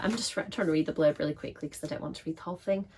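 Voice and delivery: hoarse, fast, a bit rough; rushing through with a sore, scratchy throat. Real, not acted. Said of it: "with my scratchy voice".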